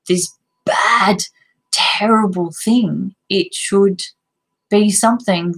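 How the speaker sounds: barely gets the words out through tears; crying. Real, not acted. Mother admitting guilt over antibiotics, crying. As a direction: voice breaking into a tearful whisper.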